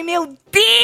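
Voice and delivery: high, loud, exasperated exclamation; exaggerated shock. Gossip host retells her reaction to Acre talk, mock shock. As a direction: cry out in mock disbelief.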